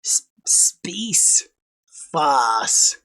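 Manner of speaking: slow Aussie demo, word by word; Australian accent. Shown as a demonstration. Showing how both words carry the accent, slow Australian pronunciation. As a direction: try each word separately in an Australian accent. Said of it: "contain the elements of the Australian accent".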